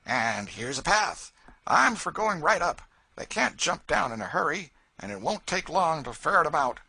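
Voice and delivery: a loud, coarse bully; Tom Locker, coarse slave catcher. A narrator's reading. Tom to the posse, boastful bluster.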